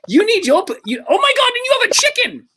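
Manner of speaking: squealing with amazed laughter; high laughing shock at a chicken; delighted surprise. Real, not acted. Host sees a chicken on camera.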